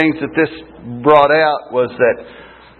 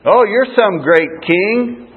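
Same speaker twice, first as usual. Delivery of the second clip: high, slow mock acclaim; 7 semitones higher than usual. The world taunting Jesus as king, mocking. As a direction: jeer with drawn-out false admiration, pitched up. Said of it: "They mocked him".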